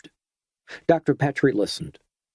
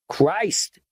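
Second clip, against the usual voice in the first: sudden sharp bellow, raised; 7 semitones higher than usual. A narrator's reading. Garnish sees the gunman fire and bellows. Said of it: "bellowed Garnish".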